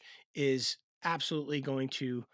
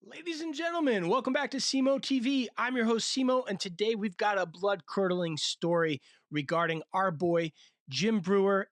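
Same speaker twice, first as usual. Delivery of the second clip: TV host intro; 2 semitones higher than usual. Acted. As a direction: hype it up like a show host.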